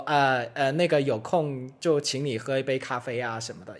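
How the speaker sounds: understated, tentative politeness; retold polite asking. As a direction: ask politely, lightly and quietly. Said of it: "礼节性的问说".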